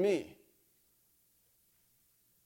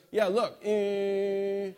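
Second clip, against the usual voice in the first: slow words through bared teeth, a bit higher; 4 semitones higher, 3 dB louder, much slower than usual. Retold or imitated. Pastor imitating a friend showing his teeth, slow and bared. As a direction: drag it out while baring teeth for inspection. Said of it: "like that, right?".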